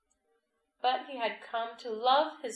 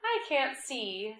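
very slow slimy snail voice; 6 semitones higher, 5 dB louder, slower than usual. A narrator's reading. Snail speaks in story.

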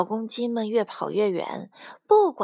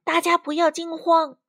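high, raised commanding call; shouting out; 7 semitones higher, 4 dB louder than usual. A narrator's reading. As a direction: call firmly over the panic. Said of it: "卡梅拉大喊道". (大声喊着稳住大家)

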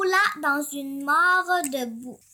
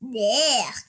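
low, drawn-out curse; exclamation; 6 semitones lower than usual. A narrator's reading. Wolf sees himself all pink, exclaiming low. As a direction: let out a low exclamation of dismay. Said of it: "et s'exclama".

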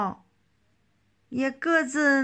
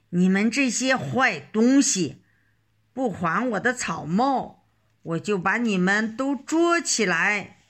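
louder, furious threats at the monkeys; angry shout; 3 dB louder than usual. Acted. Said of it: "指着猴子大声嚷".

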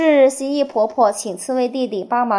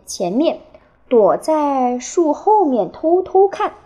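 put-on reading a picture book to children; expressive storytelling, phrase by phrase with clear pauses; 给孩子读故事. A narrator's reading. (绘声绘色地给孩子讲故事)

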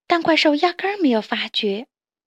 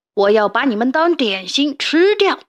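louder storybook villain threat; menacing threat; 5 dB louder than usual. Acted. Snapping turtle threatens to eat the toads, louder menacing voice. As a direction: growl out the threat to eat them. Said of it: "鳄龟恶狠狠地说".

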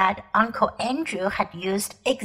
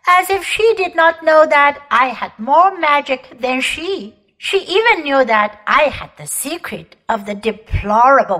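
commanding, louder queenly voice; proud imperious queen; 5 dB louder than usual. Acted. Queen boasting to the children of her war, imperious. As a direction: declaim it like a cold, proud empress.

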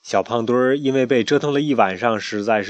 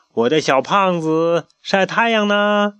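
kindly grandfather; 7 semitones higher, 4 dB louder, slower than usual. Acted. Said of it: "公鸡爷爷慈爱地问".

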